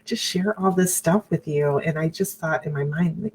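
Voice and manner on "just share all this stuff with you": imitating friends, higher and gushing; a light higher mock of the friends. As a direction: play the friends cooing that he's sweet. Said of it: "my friends thought".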